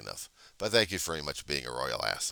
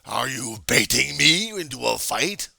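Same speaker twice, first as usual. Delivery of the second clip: higher, louder slow heckler voice; mock heckler; 8 semitones higher, 9 dB louder than usual. Heckler accusing him of baiting a fight, mock voice. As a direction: taunt him like a troll.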